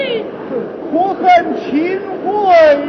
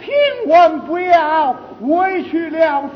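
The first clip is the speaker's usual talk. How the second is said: indignant outcry. Acted. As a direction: cry out the injustice. Young man protests his wrong. (愤愤不平地高声申诉)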